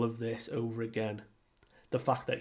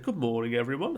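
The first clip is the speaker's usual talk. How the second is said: stiff, formal good morning; formal greeting; faster than usual. Retold or imitated. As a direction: greet everyone like a formal announcement. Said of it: "so formal".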